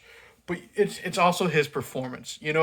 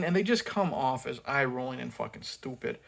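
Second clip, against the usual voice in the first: ordinary talk, nothing marked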